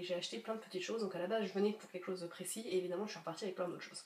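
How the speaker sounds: hoarse sick voice from a cold; croaky duck voice, real illness. Real, not acted. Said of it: "j'ai une voix de canard".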